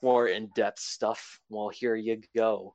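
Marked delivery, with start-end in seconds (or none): 1.5-2.7 slow flat monotone voice; deadpan monotone, slowed down. Pretend. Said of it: "in my monotone voice".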